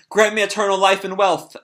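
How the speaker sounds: hammed-up cultist calling out; greedy head cultist. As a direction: beg the demon for riches. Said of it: "calls out to Sebastian".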